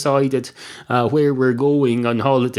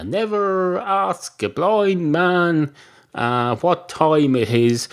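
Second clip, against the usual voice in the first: recited dictum; 4 semitones higher, much slower than usual. Retold or imitated. Quotes a dictum, drawn out.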